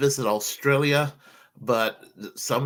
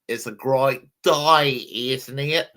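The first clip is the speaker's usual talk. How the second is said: Australian accent attempt; slower than usual. Showing his cohost how Australians sound, in an Australian accent. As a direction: try an Aussie twang on a simple sentence. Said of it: "I don't know if I could sound like an Australia".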